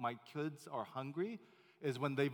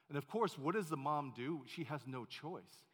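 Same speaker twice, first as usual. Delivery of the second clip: ordinary talk, nothing marked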